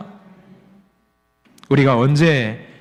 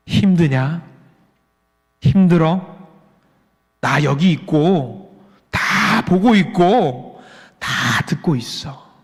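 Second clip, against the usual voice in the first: slow, reassuring divine voice; gentle voice of God; much slower than usual. Acted. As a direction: reassure slowly, leaving long pauses. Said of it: "이렇게 세미한 음성을 우리에게 주십니다". (천천히 다독이는 세미한 음성)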